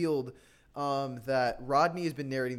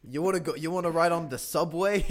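put-on New York accent; 4 dB louder than usual. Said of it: "thick New York accent".

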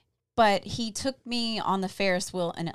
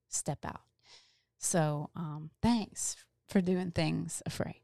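soft, breathy whisper of thanks; real emotional whisper; emotional hush; 3 semitones lower, 5 dB quieter, slower than usual. Real, not acted. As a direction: let the feeling drop your voice to a whisper. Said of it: "she trying to make me get emotional".

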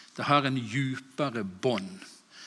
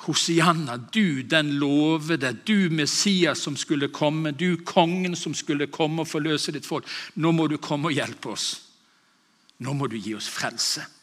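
crowd cry; 3 semitones higher, 4 dB louder than usual. Acted. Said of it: "Det de roper".

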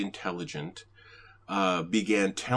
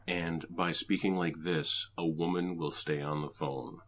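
deeper voice, about an octave down; lowered voice; 3 semitones lower, 4 dB quieter than usual. Shown as a demonstration. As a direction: drop into a lower register. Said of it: "I just lower my voice about an octave".

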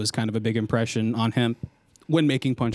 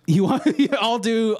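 Cartman voice; 10 semitones higher, 3 dB louder than usual. Shown as a demonstration. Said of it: "I'll do a Cartman".

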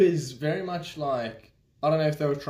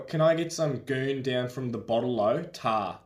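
Australian accent; 2 semitones lower than usual. Shown as a demonstration. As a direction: demo of broad Australian slang. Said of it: "Here's the test. You gotta say".

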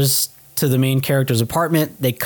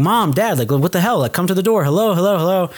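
breaking down; 4 semitones higher than usual. Retold or imitated. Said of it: "he's breaking down".

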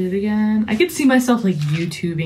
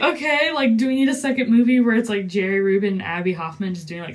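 amused sarcasm; faster than usual. Retold or imitated. Mocking the film to friends, quick amused sarcasm. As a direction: tease the movie's silliness. Own reaction quoted.

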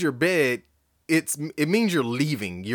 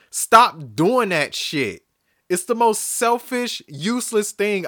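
stern rant; 4 semitones higher than usual. Real, not acted. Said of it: "I'm still in rant mode".

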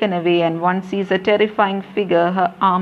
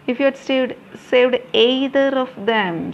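pleading; 5 semitones higher than usual. Acted. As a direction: beg her with a breaking voice. Padmini pleading.

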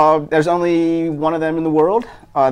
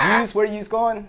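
slow, high Baltimore "yous"; Baltimore accent; 7 semitones higher, slower than usual. Shown as a demonstration. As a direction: draw out a put-on Baltimore question, amused. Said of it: "A lot of that in Baltimore".

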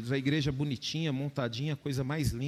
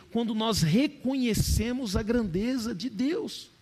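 slow solemn; 7 semitones higher, 3 dB louder, slower than usual. Acted.

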